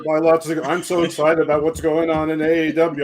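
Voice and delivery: lightly voiced rambling Tony Khan, eager and scattered; a hint of an overexcited wrestling boss; playing AEW boss Tony Khan, mildly excited; Tony Khan impression. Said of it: "I could do a Tony Khan impersonation".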